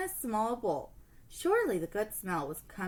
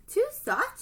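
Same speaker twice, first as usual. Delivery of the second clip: put-on girl's complaint; 5 dB louder than usual. Bed complaint.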